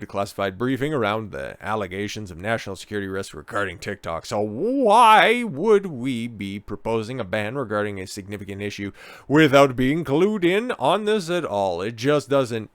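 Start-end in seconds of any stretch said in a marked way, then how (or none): 4.3-12.7 slow, lightly voiced mock politician; a hint of a mocking AOC impression; imitating AOC asking why the ban. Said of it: "the former bartender said".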